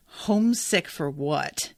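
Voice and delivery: a slow, mildly bitter "Homesick for what?". Retold or imitated. Alina answers Bagra's homesick question, mildly bitter. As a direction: let a touch of bitterness slow the line. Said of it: "In this really, you know, bitter sort of".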